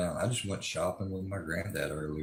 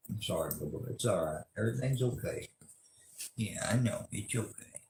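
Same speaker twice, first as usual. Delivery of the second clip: soothing the dog; 3 dB quieter than usual. Real, not acted. Soothing the dog after yelling.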